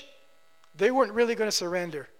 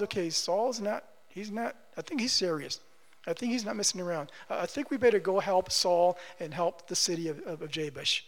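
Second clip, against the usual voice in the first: hushed, lower aside as the worried people; wary realization; 3 semitones lower, 7 dB quieter than usual. Acted. People of Israel deciding to help Saul, hushed and wary. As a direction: drop the volume, voicing people taking him seriously.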